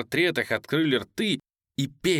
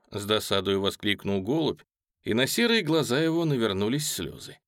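usual speaking voice

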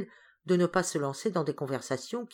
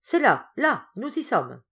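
high, loud excited shout; crying out; 6 semitones higher, 6 dB louder than usual. A narrator's reading. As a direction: call out as if the spot is found. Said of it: "et criant". (cri aigu et fort)

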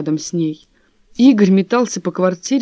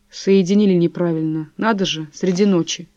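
plain reading voice

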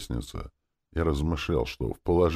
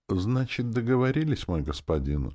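fawning wheeze; 7 semitones higher than usual. A narrator's reading. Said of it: "льстивым голосом просипел".

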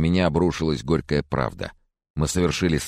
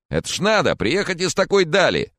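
put-on higher, louder chatty old gentleman; fussy old Mr. Corcoran, higher and louder; jolly old man; 14 semitones higher, 4 dB louder than usual. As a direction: play the doting old neighbour, up high. Corcoran marvelling.

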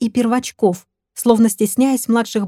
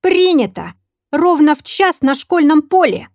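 self-assured; 6 semitones higher, 4 dB louder than usual. Acted. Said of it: "самоуверенно ответил их капитан".

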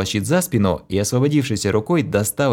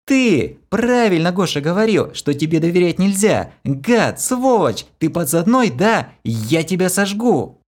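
raging accusation; 9 semitones higher than usual. A narrator's reading. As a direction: hurl insults and threats. Kira screams accusations.

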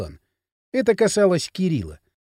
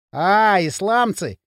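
playing dumb; slower than usual. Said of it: "продолжая корчить из себя дурака".

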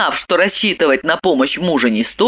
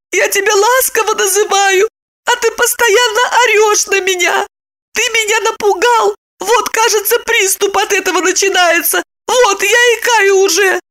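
feigned sobbing. A narrator's reading. Sister fakes sobbing to brother on the phone, high wail. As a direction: wail pitifully, putting on the tears. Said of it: "зашлась в рыданиях, жалобно приговаривая".

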